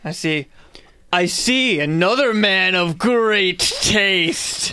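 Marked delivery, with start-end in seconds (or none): 1.1-4.7 slow, smooth flattery; flattering. Acted. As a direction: lay the compliment on slowly. Character flattering wizard.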